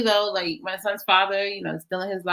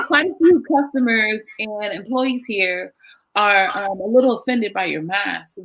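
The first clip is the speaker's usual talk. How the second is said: speaking up; 6 dB louder than usual. Real, not acted. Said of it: "Oh, speak up a little bit".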